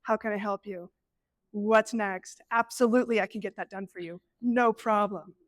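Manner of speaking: lightly voiced people-pleaser, polite and bright; mock chirpy customer-service reply; a touch of fake cheer over frustration; forced cheerful helper. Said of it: "and you're just smiling, going".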